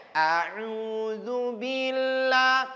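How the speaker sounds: slow, careful a'udzu billah with full dz; teacher models a'udzu billah slowly; correct a'udzu billah. Shown as a demonstration. Teacher shows correct ta'awudz, slow and clear.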